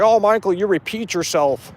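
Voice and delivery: nasal-free sing-song mockery of a viewer; mocking commenter. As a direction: parody a nagging commenter. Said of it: "Some guy was complaining in my comments".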